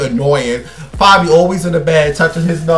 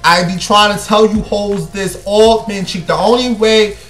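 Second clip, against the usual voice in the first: heated rant; 5 semitones higher than usual. Real, not acted. Ranting advice to women.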